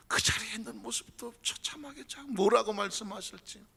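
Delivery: ordinary talk, nothing marked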